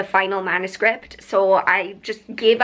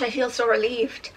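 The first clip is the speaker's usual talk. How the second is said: quiet relief; 4 dB quieter than usual. Real, not acted.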